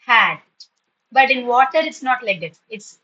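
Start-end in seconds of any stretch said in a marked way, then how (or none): 0.0-0.4 HAT as one loud beat; single-syllable demonstration. Shown as a demonstration. Teacher showing hat has one syllable, emphatic HAT. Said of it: "is joined only once".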